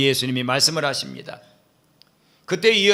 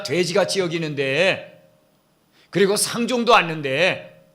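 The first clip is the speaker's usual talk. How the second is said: mildly mocking, scornful questioning; a touch of sneering disbelief; sarcastic retort; 4 semitones higher than usual. Samaritan woman scoffing at Jesus, mildly sarcastic. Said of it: "이 여자가 빈정대는 거예요".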